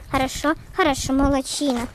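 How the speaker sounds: ordinary talk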